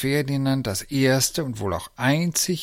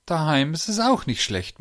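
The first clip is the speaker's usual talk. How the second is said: content remark, pitched up and louder; 6 semitones higher, 5 dB louder than usual. A narrator's reading. Uncle arriving home at last, contented. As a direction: sound pleased to be back. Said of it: "meinte der Onkel zufrieden".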